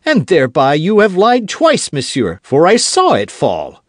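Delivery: high, loud accusing cry; hot accusation. Acted. D'Artagnan accusing Aramis of lying, loud. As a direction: call him a liar outright.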